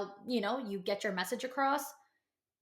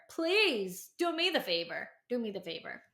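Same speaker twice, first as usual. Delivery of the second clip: pleading. Real, not acted. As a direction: plead with her sincerely. Pleading with the listener.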